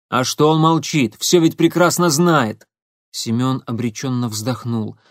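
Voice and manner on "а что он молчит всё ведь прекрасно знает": indignant retort. Acted. Igor answering Marina, loud and indignant. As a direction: argue back, fed up.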